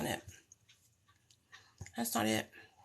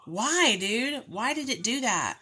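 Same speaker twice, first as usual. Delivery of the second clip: higher, exasperated pleading; frustrated; 4 semitones higher than usual. Real, not acted. Vlogger asking why the text vanished, frustrated. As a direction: whine at the misbehaving device in real frustration. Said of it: "I'm so freaking frustrated".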